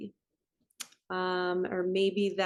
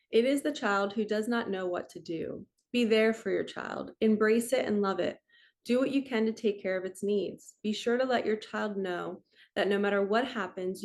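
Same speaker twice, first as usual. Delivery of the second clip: reading an affirmation card. Acted. Vlogger reads affirmation card aloud to viewers, measured and even.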